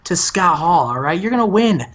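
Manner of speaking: lightly voiced sleazy TV boss sweet-talking; Bischoff impression. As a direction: pitch it up like a smarmy promoter reassuring his star. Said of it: "He's like".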